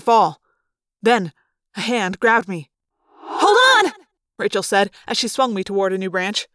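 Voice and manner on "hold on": high, loud rescue shout; raised-pitch urgent cry; urgent call. Acted. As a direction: call out sharply to someone falling. Rescuer calls out during fall.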